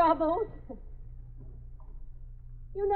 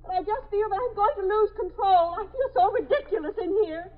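tearful. Acted. Trapped woman losing control.

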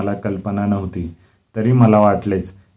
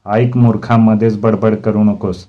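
mildly raised, impatient rebuke; irritated scolding; 4 dB louder than usual. Acted. Teacher silencing interrupting pupil, irritated scolding. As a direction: cut the pupil off crossly.

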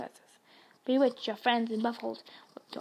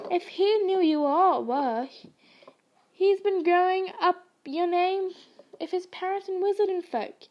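higher, louder hearty giant voice; Hagrid reassuring; 5 semitones higher, 3 dB louder than usual. Acted. Hagrid reassuring Harry about Muggle family, hearty giant voice. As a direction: boom it out like a big-hearted giant.

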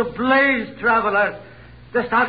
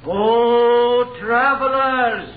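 slow, drawn-out call across the road, then a shout; slower than usual. Acted. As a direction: hail strangers from a distance. Shepherd hails travelers on road.

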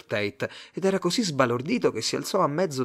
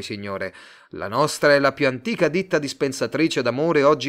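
louder, smooth pushy salesman; salesman Tate; 5 dB louder than usual. Acted. Tate pitching his love firm to Simon, louder slick salesman. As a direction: sell it to him, eager and slick.

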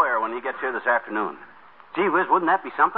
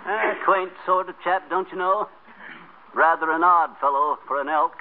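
fake posh British. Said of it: "You don't have to impress me".

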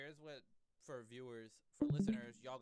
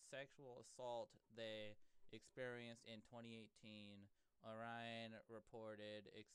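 reading aloud haltingly; 2 semitones lower, 5 dB quieter than usual. Real, not acted. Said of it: "I'm struggling with that word".

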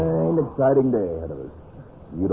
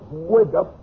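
higher, louder call to get up; rousing call; 12 semitones higher, 3 dB louder, slower than usual. Acted. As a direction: rouse the sleepers. Waking hunters at five o'clock.

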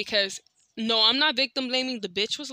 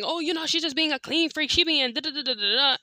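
mocking the uncle; 5 semitones higher than usual. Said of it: "my uncle's side of the story saying".

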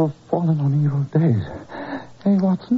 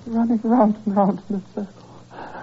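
rising, higher, frantic delirium; delirious raving; 5 semitones higher than usual. Acted. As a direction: babble faster and faster as if fevered. Holmes feigning delirium in bed.

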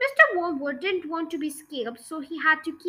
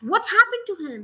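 spluttering; 4 semitones higher, 4 dB louder than usual. Acted. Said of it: "he spluttered".

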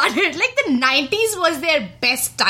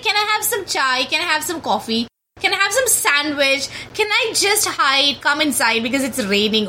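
mock pestering requests. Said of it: "So annoying".

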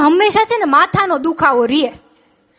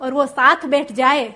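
poetic recital with punchline. Shown as a demonstration. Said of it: "કે".

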